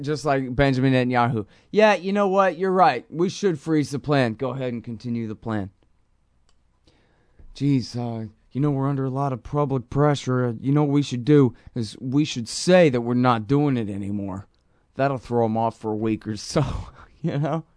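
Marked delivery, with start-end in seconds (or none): 1.7-5.7 lightly put-on Italian-American thug accent; Vinny the Thug Italian accent. Host mocking Netanyahu agreeing to freeze the plan, light thug Italian accent. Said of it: "gave him a Vinny the Thug Italian accent". 7.6-17.6 lightly hammed-up Italian-American thug accent; mock Netanyahu with a touch of Italian thug accent; Vinny the Thug Italian accent. Host voicing Netanyahu scheming under public pressure, thug Italian accent. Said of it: "gave him a Vinny the Thug Italian accent".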